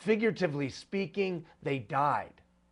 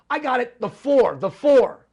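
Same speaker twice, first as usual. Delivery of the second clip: loud, raised eureka shout; acted yell; 7 semitones higher, 11 dB louder than usual. Somebody at the meeting yells a sudden idea, acted yell. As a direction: shout it like you just cracked it. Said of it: "somebody yells".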